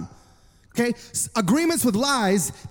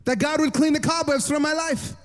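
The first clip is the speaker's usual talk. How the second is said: higher-pitched imitation of a crying woman; tearful plea; 5 semitones higher than usual. Old lady begs the pastor for prayer, mildly tearful. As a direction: plead with mock tears, only lightly acted. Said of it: "And she's still crying".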